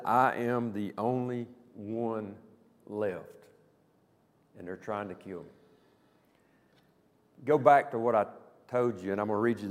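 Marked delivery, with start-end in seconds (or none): 0.0-5.5 self-pitying Elijah. Retold or imitated. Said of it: "Elijah said".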